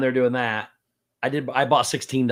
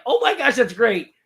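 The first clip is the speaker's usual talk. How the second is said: put-on high, loud, gushing kid's squeal; excited kid shouting at the car window, much higher; thrilled kid; 10 semitones higher, 4 dB louder than usual. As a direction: imitate a kid losing his mind with joy. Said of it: "The other kid lost his mind".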